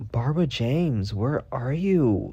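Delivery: imitated calling out. Yelling her name in the snow, imitated calling. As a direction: call for the missing cat, drawing out the end. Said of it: "yelling her name".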